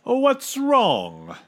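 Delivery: high, breezy question; airy, untroubled character voice; smiling captain. A narrator's reading. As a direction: ask it without a care. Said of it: "smiled the captain".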